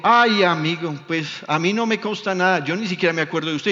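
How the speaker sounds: loud, dismissive shopkeeper denying everything; brushing off the customer. Retold or imitated. Shopkeeper denies the swap to the preacher, loud and dismissive. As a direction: shout him off, playing innocent.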